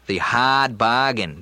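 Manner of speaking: slow Kennedy-style "hard bargain" with no r; JFK Boston accent. Shown as a demonstration. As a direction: hahd bahgain, Boston style. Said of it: "the Boston accent there hit me".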